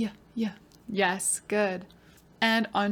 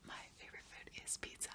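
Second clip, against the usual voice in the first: put-on soft whispered child's reply; whispered student answer; 26 dB quieter, faster than usual. Pretend pupil answering the teacher, whispered.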